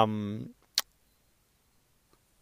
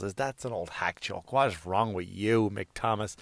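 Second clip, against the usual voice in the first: mock heckler; 5 semitones lower, 9 dB quieter than usual. Heckling himself in a low aside.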